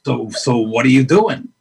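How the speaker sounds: slow, probing, lightly voiced Pacino; Al Pacino impression. Pacino pressing the unemployed actress, slow light imitation. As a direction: draw the question out like a gruff mentor. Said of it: "your imitation is genius".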